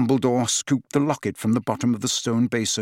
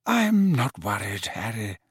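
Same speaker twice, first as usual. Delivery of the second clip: calm. Acted. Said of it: "his voice a little stronger".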